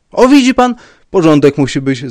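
loud, high, triumphant cry; exclaiming. A narrator's reading. Rybka throwing the commissioner's words back, exclaiming. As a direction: seize on his words and call out. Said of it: "zawołał pan Rybka".

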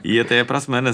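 ordinary talk, nothing marked

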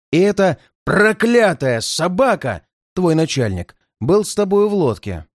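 gloating bandit, savouring every word; mustache twirling villain. Acted. Bandit interrogates captive Bob. (злодей с издёвкой)

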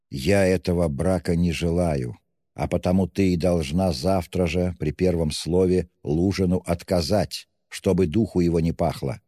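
plain reading voice

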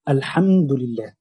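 drawn-out Quranic recitation of الحمد لله; تلاوة بطيئة; slow recitation. Shown as a demonstration. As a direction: stretch الحمد لله slowly, as in tilawa. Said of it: "الحمد لله الذي خلق".

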